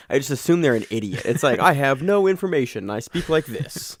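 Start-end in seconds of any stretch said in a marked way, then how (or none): 1.6-4.0 high, slow mock announcer; mock a clueless announcer. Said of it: "Whenever somebody speaks like that".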